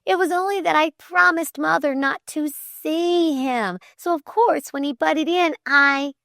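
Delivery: high, eager, friendly explanation; sudden friendliness. A narrator's reading. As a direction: confide it openly in a high girl's voice. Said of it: "explained with sudden friendliness".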